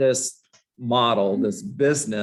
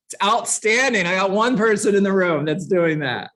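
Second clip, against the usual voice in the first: loud, high mock enthusiasm; over-the-top sarcastic delight; sarcastic praise; 6 semitones higher, 4 dB louder than usual. Real, not acted. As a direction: gush sarcastically over a poor showing.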